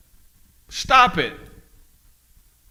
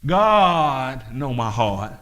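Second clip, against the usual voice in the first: mock excuse; 5 semitones lower, much slower than usual. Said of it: "How many times we have heard".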